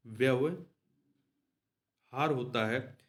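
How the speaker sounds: व्यवहार होता है drawn out slowly, each syllable of व्यवहार stretched; slow, spelled-out correction. Shown as a demonstration. Teacher dictates the right spelling व्यवहार to students, slowly drawn out. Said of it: "तो व्यवहार होता है".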